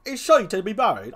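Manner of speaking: first stab at a clown character; trial clown voice. Shown as a demonstration. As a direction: test a brisk comic gravedigger. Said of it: "give the first clown something like a".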